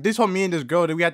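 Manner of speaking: ordinary talk, nothing marked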